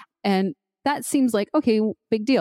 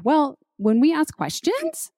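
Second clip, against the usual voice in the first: high rising question; 8 semitones higher, slower than usual. Shown as a demonstration. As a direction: pitch it up high and slow. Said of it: "listen to that".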